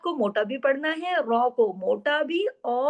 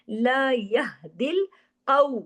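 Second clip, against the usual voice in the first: very slow chanted recitation; Quran recitation; much slower than usual. Shown as a demonstration. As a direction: recite with idgham, drawn out. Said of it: "काफ मोटा और वावे लीन". (धीमी तजवीद वाली तिलावत)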